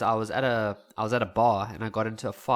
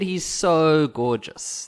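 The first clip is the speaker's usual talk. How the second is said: put-on swooning girls; 3 semitones higher, 5 dB louder, much slower than usual. Girls swoon over teacher.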